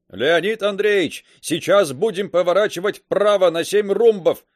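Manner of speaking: loud, raspy voice over a speaking tube; crackling from the tube; through a tube. A narrator's reading. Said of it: "в переговорной трубке захрипело".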